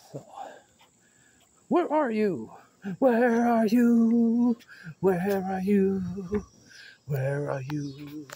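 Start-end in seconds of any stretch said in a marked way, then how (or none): 1.7-8.3 sing-song calling. Pretend. Calling out playfully.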